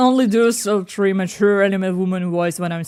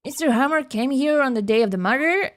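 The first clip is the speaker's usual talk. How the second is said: overacted anime dub; 5 semitones higher than usual. Voicing detective in game.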